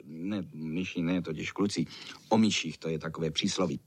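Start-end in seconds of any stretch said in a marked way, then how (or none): none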